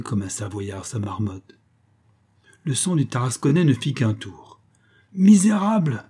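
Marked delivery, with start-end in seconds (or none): 5.1-6.0 high, loud outraged shout; thundering cry. A narrator's reading. Tartarin thunders at the lion's keepers, outraged shout. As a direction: roar it like thunder at the beggars. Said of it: "cria-t-il d'une voix de tonnerre".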